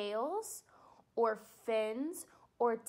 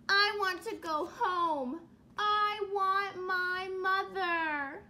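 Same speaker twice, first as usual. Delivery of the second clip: slow, sing-song longing for mother; a lost chick wanting home; sad baby bird; 5 semitones higher, 4 dB louder, slower than usual. Acted.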